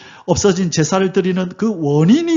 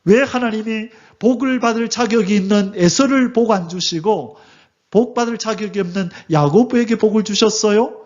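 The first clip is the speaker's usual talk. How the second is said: puzzled Israelites; 4 semitones higher than usual. Retold or imitated. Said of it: "이스라엘 백성은 못 알아듣는 거예요".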